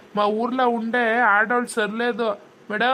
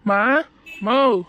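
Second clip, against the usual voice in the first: louder call for mom from another room; calling mother; 3 semitones higher, 4 dB louder, much slower than usual. Acted. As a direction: raise the voice to fetch mother. Son calling his mother.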